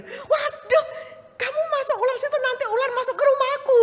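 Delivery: high, loud, laughing neighbour voice; neighbour complaining. Retold or imitated. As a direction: play the fretful neighbour. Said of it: "tetanggaku itu bilang gini".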